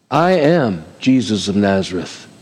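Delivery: low, solemn divine answer; solemn voice of Jesus. Acted. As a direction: answer from above, grave and steady.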